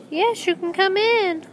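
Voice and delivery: put-on high, slow old granny voice; bunny faking a sweet grandma. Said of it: "in his grandma voice".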